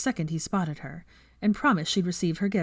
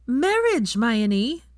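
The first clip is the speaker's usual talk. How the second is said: loud, high exasperated shout; 6 semitones higher, 5 dB louder, much slower than usual. A narrator's reading. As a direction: throw the word out in frustration. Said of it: "Veronica shouted".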